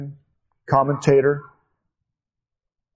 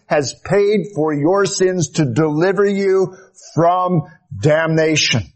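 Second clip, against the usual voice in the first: fervent preaching; 4 semitones higher than usual. Acted. Preaches with rising fervour.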